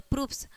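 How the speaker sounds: "प्रूफ्स" with a clear s ending; final s sound. Shown as a demonstration. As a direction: finish "प्रूफ्स" on a voiceless s. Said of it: "स हो जाएगा". ("प्रूफ्स" के आख़िर में स बोलें)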